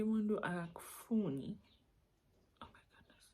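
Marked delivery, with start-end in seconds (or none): 2.6-3.2 barely audible, tearful murmur; on the verge of tears. Real, not acted. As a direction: say it under your breath, fighting tears. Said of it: "I don't wanna cry".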